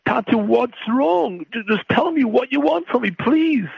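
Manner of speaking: put-on frightened child pleading. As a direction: plead like a scared little boy to his father. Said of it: "the frightened child looks into his eyes and says".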